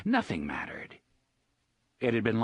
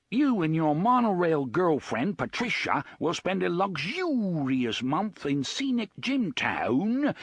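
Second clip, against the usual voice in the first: put-on plummy, bogus British accent, high and bellowed; 7 semitones higher than usual. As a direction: bellow it like a fake posh British TV host. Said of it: "bogus British accent".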